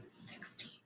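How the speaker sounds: breathy whispered number. Shown as a demonstration. Teacher whispering every other number in a counting drill, whispered. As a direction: whisper it, no voice at all. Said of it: "Now we're gonna whisper every number".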